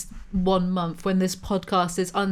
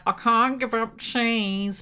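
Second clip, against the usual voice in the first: mocking whine; 2 semitones higher, much slower than usual. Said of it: "vegetarians are always like".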